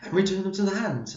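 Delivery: hoarse, strained voice going; straining a hoarse voice; losing voice. Real, not acted. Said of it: "I'm losing my voice".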